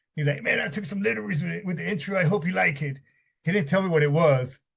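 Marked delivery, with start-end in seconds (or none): 0.4-2.9 scratchy, rasping voice. Retelling a past conversation, the speaker is imitating a raspy voice. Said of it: "he's got this raspy voice".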